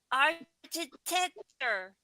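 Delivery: "architecture" spelt out syllable by syllable, very slow; struggling word. Real, not acted. Tries hard to get "architecture" out, very slowly. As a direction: drag each part of "architecture" out carefully. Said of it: "trying to say it".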